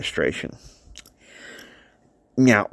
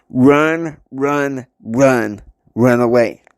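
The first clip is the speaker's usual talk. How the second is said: urgent warning; 5 dB louder, much slower than usual. Acted. Charlie warning someone to get away, urgent calls. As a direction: call out each run separately. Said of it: "he said it one more time".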